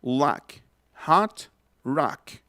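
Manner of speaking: "lock, hot, rock" with jaw-dropped A; "hot" as an open "hat"; open vowel. Shown as a demonstration. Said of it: "Otra vez".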